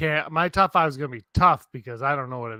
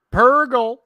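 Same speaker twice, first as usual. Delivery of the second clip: high loud cry of the name; excited; 10 semitones higher, 8 dB louder than usual. Real, not acted. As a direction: announce it with glee. Excited announcement.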